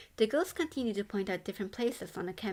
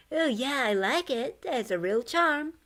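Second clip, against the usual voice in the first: higher, louder ghost voice; delighted ghost; 5 semitones higher, 6 dB louder than usual. A narrator's reading. Ghost praising the old dorm, higher and louder. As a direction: gush about the charm.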